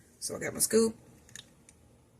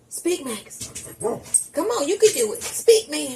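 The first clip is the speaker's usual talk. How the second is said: coaxing the dog; 8 semitones higher, 3 dB louder, slower than usual. Real, not acted.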